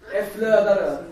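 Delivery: flödar over thrown out loud and high; emphatic proclamation. Shown as a demonstration. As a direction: shout "det flödar över" with joy. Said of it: "Men här står det".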